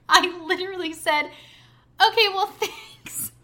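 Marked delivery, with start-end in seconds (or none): 1.2-3.3 high, strained polite thanks; awkward politeness. Retold or imitated. Storyteller replaying her reply to an unwanted confession, awkwardly polite. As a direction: squeak out an uncomfortable thank-you.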